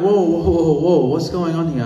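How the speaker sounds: stepping between two men, loud and high; alarmed calling out. Retold or imitated. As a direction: call out to stop them, startled. Stepping in to calm fight.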